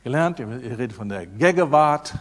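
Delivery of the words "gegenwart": "Gegenwart" in local dialect, n dropped; lightly mimicked regional dialect on "Gegenwart". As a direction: imitate the local dialect's "Gegewart". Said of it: "für mich seltsame Sprache".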